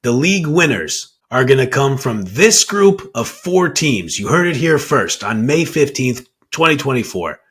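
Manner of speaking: bad acting. Shown as a demonstration. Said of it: "I'm gonna deliver it like it's extremely spicy".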